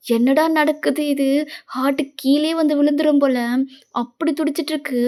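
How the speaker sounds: heart-dropping shock, lightly acted; shocked disbelief. Friends watching the sudden wedding proposal, mildly shocked. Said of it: "உன் ஃப்ரெண்டுக்கு shock மேல shock".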